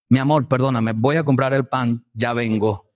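suave y más grave, para calmar a la esposa; gentle reply. Retold or imitated. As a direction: pide perdón con dulzura. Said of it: "la blanda respuesta quita la ira". (respuesta blanda y tranquila)

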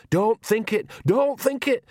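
high, urgent warning. A narrator's reading. Nanny stopping Magrat's thought, urgent and high. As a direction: urge it insistently, pitched well up. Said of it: "said Nanny urgently".

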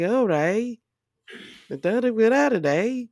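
imitated Canadian lilt; badly faked Canadian accent. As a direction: hum along in mock Canadian, ending on "eh". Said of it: "that Canadian accent".

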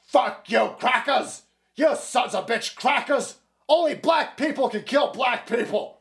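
hammed-up imitation of a protester shouting insults; mock screaming. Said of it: "while screaming".

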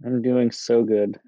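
slow, bored deadpan. Pretend. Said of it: "You sound so great".

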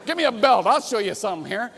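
threatening parent. Acted. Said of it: "you don't have to yell".

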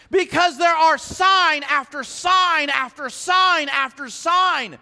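each sign slow and weighted; stress on sign. Real, not acted. Preacher hammering sign after sign, slow. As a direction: lean on every sign. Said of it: "repetition stressed".

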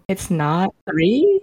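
"three" said like "free", slowly, questioning; slow puzzled "three" with an f for th; baby-talk pronunciation. Retold or imitated. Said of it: "That's baby voice".

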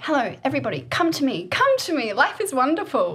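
high, loud mock-gushing welcome; exuberant welcome. Woman now open to people after being withdrawn, exuberant welcome. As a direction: beckon everyone in with playful gusto. Acts out her new open self.

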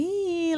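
high, drawn-out "eh"; soft high grumble imitating relatives; mock whine. Family grumbling about the long wait, mock whine.

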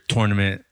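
"tournament" with a clear "tor" first syllable; East Coast pronunciation. Retold or imitated. Telling friends about a soccer tournament, East Coast pronunciation. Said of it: "because I would say tournament".

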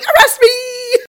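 high, slow, hammed-up wailing shout; yelling. Suspect left alone, hammed-up wailing yell. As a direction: wail it through the door. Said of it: "he's literally just yelling".

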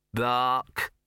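spoken dog bark, feigned innocence; innocent bark. A narrator's reading. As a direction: say the bark as if you're just a dog.

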